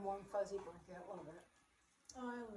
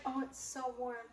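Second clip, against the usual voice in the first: slow, higher imitation of smug comfort; slow teasing mimicry, pitched up; mock cosy gloating; 4 semitones higher, slower than usual. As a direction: draw it out, mimicking a snug gloater.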